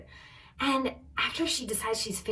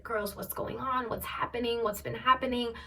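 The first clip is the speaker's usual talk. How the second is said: higher, measured imitation of officials; diplomatic questioning; 5 semitones higher than usual. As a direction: lightly voice officials gently asking around. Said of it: "in a pretty diplomatic way".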